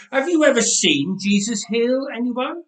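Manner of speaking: put-on high, loud indignant boy; boy's challenge. A narrator's reading. Nathan challenging his aunt, high and loud. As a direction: fire the question back at her.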